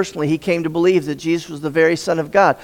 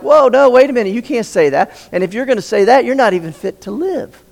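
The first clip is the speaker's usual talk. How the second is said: higher, a jolt of alarm on "Whoa"; lightly voiced protesting crowd; outraged objectors; 6 semitones higher than usual. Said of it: "And Jews are like".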